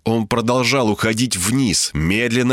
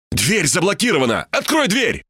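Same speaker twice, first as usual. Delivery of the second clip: shouted order; 7 semitones higher than usual. A narrator's reading. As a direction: cry out the order to the assistant. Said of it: "крикнул я Ибе". (взволнованный выкрик повыше, без громкости)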